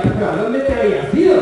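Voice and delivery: the speaker heckling the party leader, loud and mocking; mocking retort. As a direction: fire back in disbelief. His own retort to Rubalcaba.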